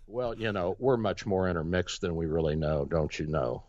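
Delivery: ordinary delivery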